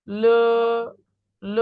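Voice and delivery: long held ল; Pinyin l as ল. Shown as a demonstration. Teacher answers how l sounds, drawn-out ল. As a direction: draw ল out as a model syllable. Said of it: "এল এর উচ্চারণ কি হবে".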